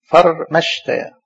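فرمشتا slow, broken after the held R; spelled out by syllables. Shown as a demonstration. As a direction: sound out فرمشتا as farr, meshtaa. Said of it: "أنا لازم أقعد أستهجاه".

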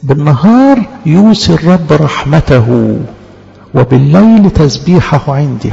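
slow, solemn scripture reading; slow recitation. Acted. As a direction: recite the verse slowly and reverently. Recites verse slowly. (تلاوة بطيئة ووقورة)

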